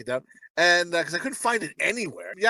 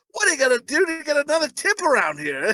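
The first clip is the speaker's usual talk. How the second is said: laughing mock demand; 9 semitones higher than usual. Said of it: "He's like".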